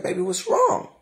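mock the husband's worried call; husband's worried question. Husband grabs her, asks.

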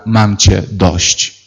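slow, drawn-out exhausted sigh of words; the prophet at the end of his rope; weary. Retold or imitated. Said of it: "mówi do Pana Boga". (powolne, zmęczone „mam dość”)

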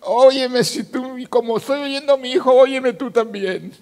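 high, loud cry to God; impassioned re-enacted prayer; desperate plea.

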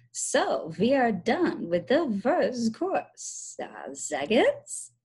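lightly put-on, drawn-out gourmet voice. Billy playing at fine dining, put-on slow gourmet. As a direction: stretch it out slowly like a mock gourmet. Billy putting on grand diner voice.

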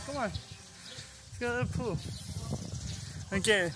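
ordinary delivery

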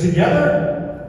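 high, slow, rising question; retold questioning. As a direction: query the word in mock disbelief. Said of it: "He goes".

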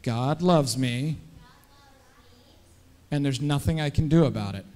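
put-on measured call for children to repeat. Shown as a demonstration. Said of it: "Let's say it a little bit louder".

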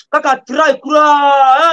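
drawn-out shout. Acted. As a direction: drag the last word out like a chant. Stretched chant, shouted slowly.

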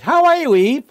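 high, loud sly snake voice; hammed-up snake tempting Eve; talking snake. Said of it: "a talking snake who says".

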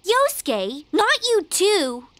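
exasperated. Acted. Friend joins the creepy rumor talk.

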